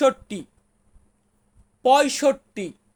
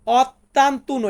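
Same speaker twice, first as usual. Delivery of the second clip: ottantuno stretched out syllable by syllable; slow repeat; 4 dB louder, much slower than usual. Shown as a demonstration. Teacher repeats ottantuno slowly for students. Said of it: "Italian ভাষাতে বলবো".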